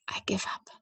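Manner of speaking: a breathless whisper of defeat; whispering in defeat to the Lord. Acted. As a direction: barely voice "I give up.". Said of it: "You hear me whisper".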